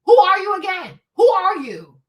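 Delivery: loud confrontational challenge; mock Minister Farrakhan telling off; Farrakhan confronting. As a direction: demand who they are, rising in force. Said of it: "it's kinda like Minister Farrakhan".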